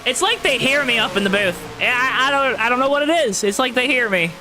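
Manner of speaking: steady, rolling race-caster delivery; announcer voice. Real, not acted. Race streamer calling laps for viewers, announcer voice. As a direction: keep the broadcast energy going over the restart. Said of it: "my announcer voice like this".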